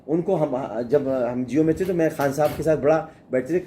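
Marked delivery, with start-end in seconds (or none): none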